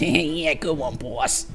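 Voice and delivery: lightly voiced little henchman; small goon voice. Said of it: "He's the second one who goes".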